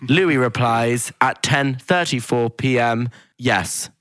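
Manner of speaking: slow, measured announcer reading out quotes; camp, deliberate read-out of the evidence; drawn-out reality-show announcer; camp Big Brother voice. Retold or imitated. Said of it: "in his, like, voice. It's so camp".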